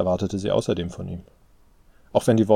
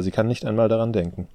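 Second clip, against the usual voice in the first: usual speaking voice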